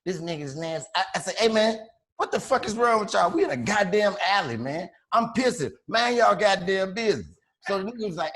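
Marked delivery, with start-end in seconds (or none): 1.4-7.3 raised, heated voice telling them off; mock angry yell. Retelling how he yelled at the men in the alley, heated. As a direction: snap back at the strangers. Retold alley argument with strangers.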